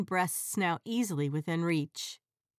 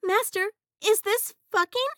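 high, loud innocent genie; 13 semitones higher, 6 dB louder than usual. Acted. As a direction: ask it wide-eyed and high. Genie asks master.

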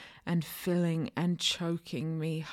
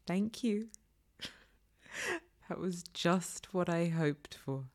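laughing thanks. Acted. She thanks him, laughing softly.

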